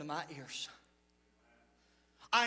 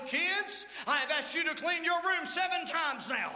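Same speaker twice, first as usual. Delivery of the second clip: rather loud; 4 semitones higher than usual. Retold or imitated. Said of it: "Mom says rather loudly".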